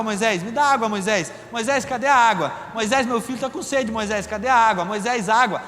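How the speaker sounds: lightly voiced nagging, like a pestering kid; pestering like a child. The people pester Moisés for water, lightly nagging. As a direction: keep pestering Moisés over and over. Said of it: "chatinho como Isadora".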